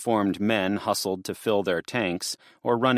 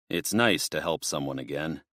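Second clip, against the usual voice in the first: a touch lower and tired; lightly voiced policeman; 3 semitones lower than usual. Officer Jones sighing to Garth, lower and weary.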